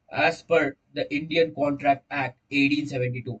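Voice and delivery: slow, deliberate dictation of the answer; model exam answer. Shown as a demonstration. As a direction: spell it out slowly so they can write it. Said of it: "जब भी answer लिखना है exam में".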